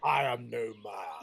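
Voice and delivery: lightly quoted film heroine. Retold or imitated. Quoting Lord of the Rings to a friend, slow heroic line. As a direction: quote the heroine's line slowly, a little low. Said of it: "And she's like".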